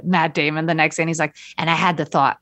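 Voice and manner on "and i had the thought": half-hearted attempt at a Boston accent. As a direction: try a slight Boston accent, badly. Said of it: "I can't do a Boston accent".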